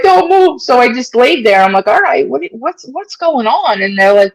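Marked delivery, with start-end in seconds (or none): 0.0-0.6 much higher, firm order; EMT command. Retold or imitated. EMTs telling her to stay. 1.9-3.8 higher, slowed, puzzled questions; slow confusion. Retold or imitated. Confused, lying still.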